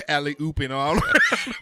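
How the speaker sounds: laughing through the words. Real, not acted. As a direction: giggle out the line. Laughing while teasing.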